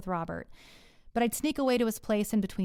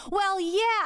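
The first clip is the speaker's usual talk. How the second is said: snapped back; 11 semitones higher, 4 dB louder than usual. Retold or imitated. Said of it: "I snapped back".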